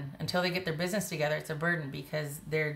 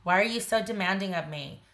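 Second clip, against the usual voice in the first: mock defensive complaint; touch of sarcastic indignation; defensive, controlling; 3 semitones higher, 4 dB louder than usual. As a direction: push back as the accused partner, mildly hammed up. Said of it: "someone being really defensive and controlling".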